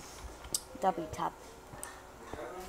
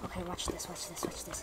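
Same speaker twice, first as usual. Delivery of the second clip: unvoiced whisper, sneaking; conspiratorial whisper before a sneak attack; 3 semitones lower, 12 dB quieter than usual. Real, not acted. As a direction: hush it like you're creeping up. Sneaking up on a player.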